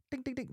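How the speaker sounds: high, soft ding-ding of a bell; little bell imitation, high and quiet; imitated bell. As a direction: tinkle like a tiny hand bell.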